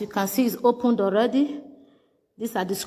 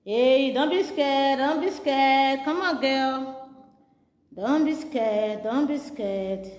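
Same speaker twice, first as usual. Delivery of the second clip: slow, gentle coaxing; slow comforting; 2 semitones higher, much slower than usual. Real, not acted. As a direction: ease her fear, drawn out. Comforting a scared patient.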